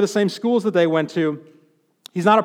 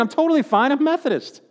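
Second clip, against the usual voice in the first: smug self-assurance; 6 semitones higher than usual. Retold or imitated. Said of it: "tempting religious trapping here".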